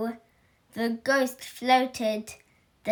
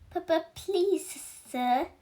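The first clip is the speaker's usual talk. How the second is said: stammering plea; 6 semitones higher than usual. Acted. Pupil pleads with headmaster.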